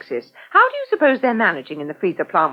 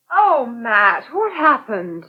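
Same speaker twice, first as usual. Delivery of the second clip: a teasing imitation of a plaintive call for help; mock plea for help; much slower than usual. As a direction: mimic him whimpering for help, half-joking. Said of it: "I thought you said".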